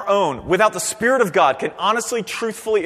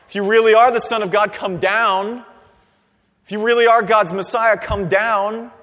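mocking taunt; 3 semitones higher, 5 dB louder than usual. Mockers taunting Jesus on cross.

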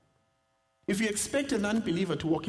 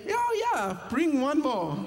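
hammed-up greedy yes; eager yes; 9 semitones higher, slower than usual. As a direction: jump at the offer. Eager yes to another drink.

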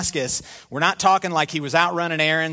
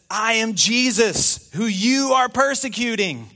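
voice of Jesus; 6 semitones higher than usual. Acted. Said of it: "and he says".

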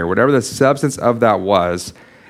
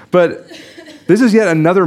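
laughing; 7 semitones higher than usual. Real, not acted. Laughs after apologising.

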